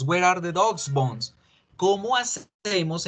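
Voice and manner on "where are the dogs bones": "dogs" plain /doks/; same-sounding plural. Shown as a demonstration. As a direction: repeat "dogs bones" as one s. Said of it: "la pronunciación está igual".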